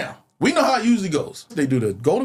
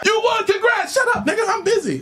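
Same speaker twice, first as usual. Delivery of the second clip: higher, laughing impression of brother; laughing mock brush-off; 13 semitones higher than usual. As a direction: brush off your brother's call, amused.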